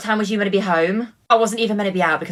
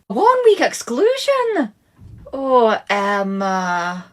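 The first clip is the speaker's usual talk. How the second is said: shocked mum; 3 semitones higher, much slower than usual. Acted. Mother shocked at school exclusion.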